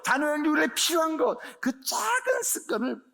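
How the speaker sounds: loud, high, ringing preacher's build-up; a high, loud, impassioned sermon cadence; preaching at full force. Real, not acted. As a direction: drive the list home to the congregation. Sermon climax, repeated list.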